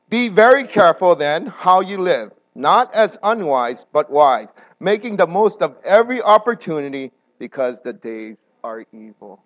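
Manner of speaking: group reads the verse as one; many voices in unison. Shown as a demonstration. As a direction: read aloud together in unison. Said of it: "all in one voice".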